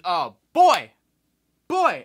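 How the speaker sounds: high, loud drawn-out exclamation; overwhelmed relief; exasperated oh boy. Retold or imitated. Finally through to the plane, overwhelmed loud relief.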